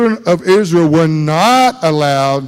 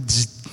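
imitated electric buzz; 5 semitones lower, 7 dB quieter than usual. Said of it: "That thing said".

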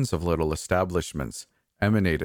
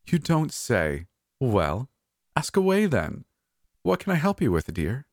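put-on much higher, sweet old diva voice; high-pitched hoarse diva; 7 semitones higher than usual. A narrator's reading. Old diva inviting the narrator to sit, high sweet voice. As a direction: play the fussy old Hollywood diva, pitched way up. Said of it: "in that high-pitched, hoarse voice of hers".

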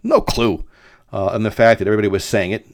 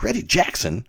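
incredulous; 9 semitones higher, 4 dB quieter than usual. Retold or imitated. Teacher astonished at mistake.

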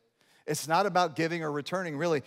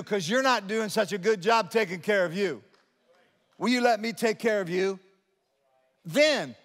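raised, higher preacher voice; impassioned preaching; 5 semitones higher, 4 dB louder than usual. Real, not acted. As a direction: preach it out with rising conviction. Preaches God's promise.

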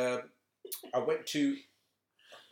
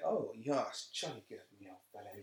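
lightly put-on posh voice, trailing softer; mock posh; 2 semitones lower, 5 dB quieter than usual. Host denying a put-on voice, mock posh. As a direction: play at being posh, understated. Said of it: "when we all talk posh".

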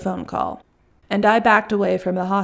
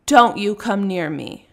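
sharp raised warning, slowing on the last words; angry shout; 3 dB louder, much slower than usual. Acted. Russian woman shouting at the delivery man to keep away. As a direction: order him back with a slow, raised threat. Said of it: "she shouts".

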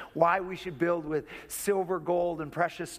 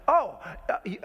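higher and louder, fast sneering accusations; accuser's voice; 8 semitones higher, 5 dB louder than usual. Acted. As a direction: taunt like the accuser before the throne. Voicing the accuser's taunts.

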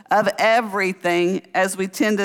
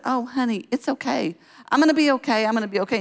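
higher-pitched motherly soothing; acted reassurance; 5 semitones higher, faster than usual. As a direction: comfort an upset little child, re-enacted. Soothing her crying child.

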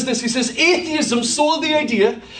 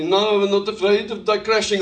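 put-on terrible Dutch accent; 5 semitones lower than usual. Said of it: "I'm doing a terrible Dutch accent".

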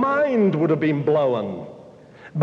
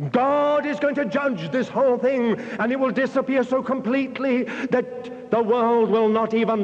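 prophetic warning; 3 semitones higher than usual. Retold or imitated. Preacher imagines prophesying in Washington.

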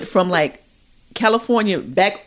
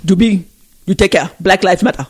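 put-on African accent. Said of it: "in the African accent".

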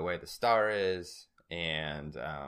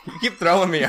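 laughing; 10 semitones higher, 10 dB louder, faster than usual. Real, not acted. Laughing at co-host.

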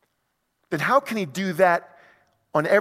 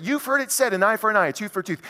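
put-on higher, quicker repeat of the old saying; quicker raised quote; 5 semitones higher, faster than usual. Shown as a demonstration. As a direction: toss it off higher and faster. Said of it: "It's right there in the Old Testament".

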